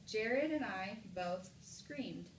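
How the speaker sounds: slow statement, falling on "screamed"; period reading. Shown as a demonstration. Teacher models another sentence with a period, slow falling statement. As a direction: read slowly and let "screamed" drop. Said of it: "Now here's another sentence".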